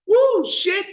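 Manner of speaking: a high, loud, shuddering woo; creeped-out exclamation. Real, not acted. Telling listeners about the murder house, a high loud creeped-out woo. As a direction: shake off the chill out loud.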